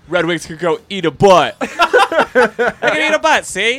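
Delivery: put-on high, loud laughing old-time tough guy; old-timey voice. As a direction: mug it like a vintage gangster. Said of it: "The old-timey voice".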